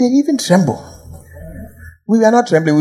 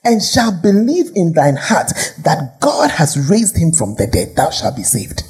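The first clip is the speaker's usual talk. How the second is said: careful reading. Real, not acted. Preacher reads the verses to the congregation, careful and deliberate. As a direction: read it out carefully, phrase by phrase. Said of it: "I want to read it carefully".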